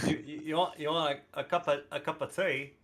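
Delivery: stumbling, badly faked British; halting mock-British question; attempted British accent. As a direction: feel your way into a British accent, restarting. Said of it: "I'm trying to say British phrases".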